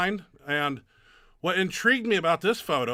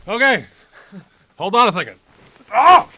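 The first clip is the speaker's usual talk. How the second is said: can't breathe in costume; 5 semitones higher, 9 dB louder than usual. Real, not acted. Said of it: "I can't breathe in this thing".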